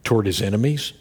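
usual speaking voice

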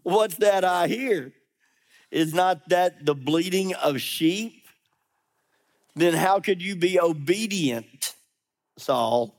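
dry mock surprise, slowing to a pointed name; sarcastic. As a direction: needle him, you know he's lying. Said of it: "I can almost hear sarcasm in his voice".

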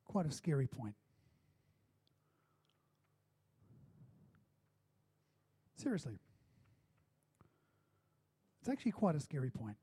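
soft, low-key, grave preaching; hushed sobering. Real, not acted. Preacher confronting the church with a scary point, hushed and sober. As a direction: drop right down and let the point sink in.

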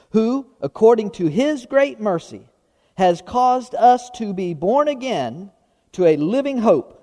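measured public Bible reading; scripture reading. Real, not acted. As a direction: read it out phrase by phrase, with pauses between. Resumes reading scripture aloud.

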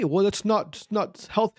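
timid objector. Pretend. Critic objecting to rich man's McNuggets, lightly mimicked timid objection. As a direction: stammer a small mock objection.

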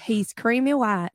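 "white" flattened to "waht", Kentucky style; imitated Kentucky accent. Player copies her friend's answer, mock Kentucky accent. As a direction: mimic a Kentucky "creamy waht". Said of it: "Don't say it like that".

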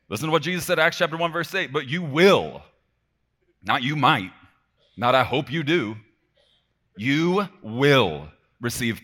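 high, loud preaching with hard-hit key words; emphatic proclamation. Real, not acted. Preacher declaring Jesus's promise to the congregation, emphatic and loud. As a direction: proclaim the promise forcefully, punching each phrase.

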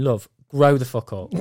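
shouted scolding at a grown woman; mock shout. Imagined telling off a crying adult fan, shouted. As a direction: yell it like telling her off. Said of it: "I felt like grabbing her and saying".

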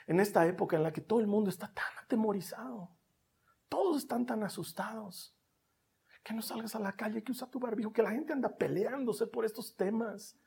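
fast, hushed whisper. Real, not acted. Preacher describing the fearful times to the church, whispered. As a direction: rush it under your breath. Whispered aside about fears.

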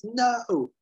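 high-pitched mock shout of protest; retold shout. Recapper voices McGee seeing the jump, mock shout. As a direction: cry it out high, without full volume. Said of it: "and he shouts".

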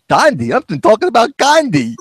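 confused retort. Retold or imitated. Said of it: "He's going".

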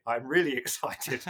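slow, laughing innuendo on really; suggestive. Retold or imitated. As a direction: drawl the line with a knowing laugh. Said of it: "subtle sexual innuendo that's captured".

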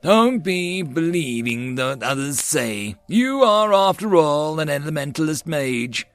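put-on slow, grave older mage; stern elder's weighty delivery. A narrator's reading. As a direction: admonish gravely like an old master. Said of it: "said over grave tone".

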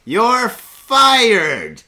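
stern loud boss voice; business tone. Shown as a demonstration. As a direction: bark it like a boss. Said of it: "Say it in a business tone".

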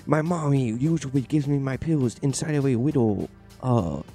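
put-on rising sweet little kid voice; baby voice. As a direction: play an excited toddler. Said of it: "I'm baby Neo".

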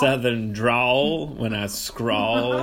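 very slow, laughing through the rhyme; laughing wordplay. Real, not acted. Joking about her southern drawl, laughing. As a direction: drag out the rhyme while giggling. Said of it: "Have you noticed my".

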